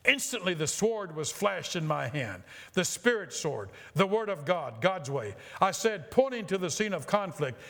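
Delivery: ringing, declamatory storytelling; dramatic story reading. A narrator's reading. Preacher reading a healing testimony to his congregation, dramatic narration. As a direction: read it out with preacherly fervor.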